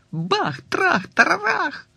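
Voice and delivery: slow, rising exclaimed crash; dramatic crash. A narrator's reading. Narrator acting out being knocked over, slow and high. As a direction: boom it out for effect.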